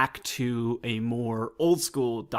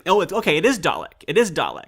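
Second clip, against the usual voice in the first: realization; 5 semitones higher, 4 dB louder than usual. Retold or imitated. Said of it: "I was like".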